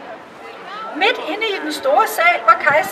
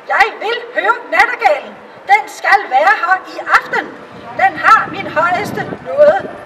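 imperious emperor; 3 semitones higher than usual. Acted. The emperor orders the nightingale brought tonight, imperious. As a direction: play the emperor giving an order.

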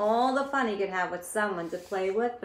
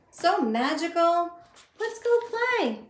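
very high, louder delighted voice; excited crayon; 8 semitones higher, 5 dB louder than usual. Acted. Crayons inviting the unicorn to play. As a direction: beam with delight.

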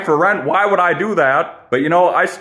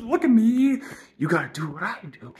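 mock boastful; 5 semitones higher, 6 dB quieter than usual. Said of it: "I'm just kidding".

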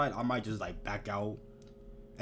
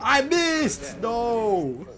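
higher, louder outcry; sharp shout of dismay; frustrated yell; 8 semitones higher, 4 dB louder, much slower than usual. Real, not acted. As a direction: yelp it at the miss. Game moment outcry.

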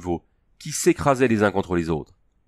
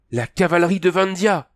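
high, louder triumphant shout; triumphant cry; 10 semitones higher, 3 dB louder than usual. A narrator's reading. Princess spotting her cavalry, crying out in triumph. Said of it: "s'écria-t-elle d'un air triomphal".

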